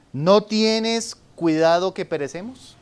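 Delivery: slow, reproachful question to the Lord. Retold or imitated. Preacher quoting the frightened disciples, slow and reproachful. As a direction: say it as a slow, bold rebuke. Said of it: "con un tono de reproche".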